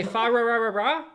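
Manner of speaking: R for L in a put-on Asian accent; mock Asian accent. Shown as a demonstration. Demonstrating how they'd say a carol, mock Asian accent. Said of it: "what they think is the normal version".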